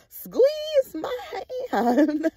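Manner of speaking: very slow, high, crying, hammed-up; slow wailing mock plea. Retelling mom at the stepdad's bedside, slow, high, mock crying. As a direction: drag it out like a mock sob. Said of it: "She like".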